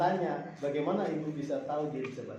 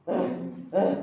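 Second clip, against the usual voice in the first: short wordless "ah" grunts, imitated; two abrupt imitated vocal sounds; imitated non-verbal vocalizing; 3 dB louder than usual. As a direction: mimic a non-verbal child's brief calls. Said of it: "dia bilang gitu".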